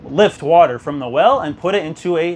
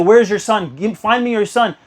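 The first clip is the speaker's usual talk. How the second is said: retold angry yell; 4 semitones higher, 3 dB louder than usual. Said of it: "He started yelling".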